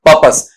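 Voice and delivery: teacher repeating the correct पर्पस; correct pronunciation. Shown as a demonstration. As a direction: model पर्पस as pəpəs. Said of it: "क्या बनेगा वहां पर".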